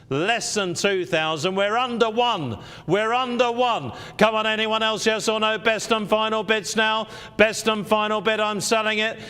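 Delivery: rising auction call to the sale; auctioneer. Acted. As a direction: build up to going once, going twice.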